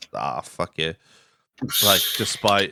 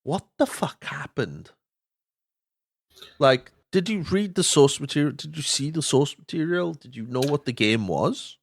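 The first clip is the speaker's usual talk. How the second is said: incredulous questioning, pitched up; baffled disbelief; 5 semitones higher than usual. Acted. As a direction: demand answers in baffled disbelief. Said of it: "then you just go".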